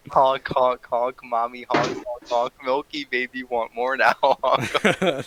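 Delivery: goofy honking clown voice; silly clown. Acted.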